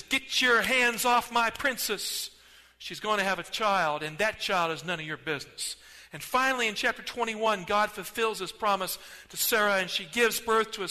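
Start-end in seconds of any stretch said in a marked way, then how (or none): 0.0-5.8 protective warning. Acted. God warns Abimelech.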